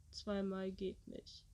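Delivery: low, slow, monotone dubbing voice; deep monotone. Retold or imitated. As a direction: say it deep and dead flat. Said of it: "mit tiefer Stimme sehr monoton sagt".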